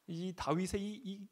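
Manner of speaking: ordinary talk, nothing marked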